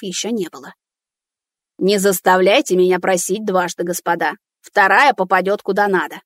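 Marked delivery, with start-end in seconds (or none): 1.8-6.2 menacing. Acted. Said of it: "уже грозно заявил".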